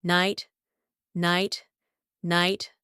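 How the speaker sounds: "Night" with the gh silent. Shown as a demonstration. Teacher showing silent letters, gh silent in "Night". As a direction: say "Night" like nite, tune rising. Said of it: "in most cases it is silent".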